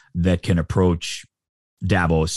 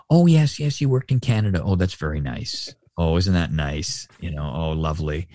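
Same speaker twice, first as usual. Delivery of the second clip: mock polite brush-off. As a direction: imitate someone politely unimpressed, voice dropping away. Acts out polite British brush-off.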